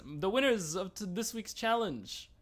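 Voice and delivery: high, drawn-out winner announcement; mock show-host reveal, stretching words for suspense; RuPaul. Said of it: "and she says".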